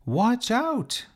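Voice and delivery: high, loud call across the street; shouted warning. Acted. Sophie warning the sparrow from the curb, high shout. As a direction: yell a warning to the little bird. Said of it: "she shouted".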